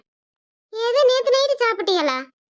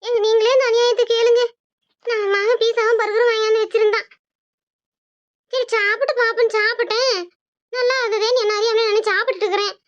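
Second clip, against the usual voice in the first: mock crying complaint; 3 semitones higher than usual. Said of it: "எதுக்கு அழுதுகிட்டு இருக்கவ?".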